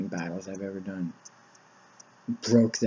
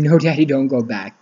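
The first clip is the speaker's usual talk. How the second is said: retold scream; 3 semitones higher, 6 dB louder than usual. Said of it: "she'd scream".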